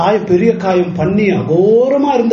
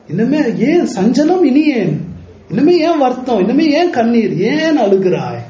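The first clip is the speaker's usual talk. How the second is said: fervent exhortation; 4 semitones higher than usual. Real, not acted. Rising exhortation to congregation.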